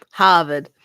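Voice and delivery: Harvard with the Boston dropped R, "Hahvahd"; Boston accent attempt. Shown as a demonstration. Testing an elusive accent on stream, attempted Boston accent. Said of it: "the Boston accent".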